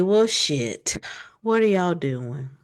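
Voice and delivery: a light Southern drawl on "Well, shit, what are y'all doing?"; lightly voiced Southern accent quote. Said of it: "In the best Southern accent".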